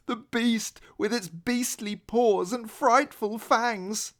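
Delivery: slow, high, spooky telling of the beast; fearful. Acted. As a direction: linger on the scary words to frighten. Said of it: "said fearfully".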